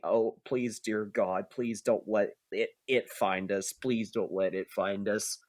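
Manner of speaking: low, quiet, pleading; hushed terrified praying; fearful prayer. Acted. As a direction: beg God under your breath. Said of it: "praying, like, saying".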